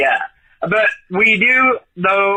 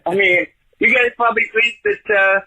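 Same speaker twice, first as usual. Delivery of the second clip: a hint of a put-on Southern accent all through; fake Southern accent. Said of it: "that's a totally fake accent".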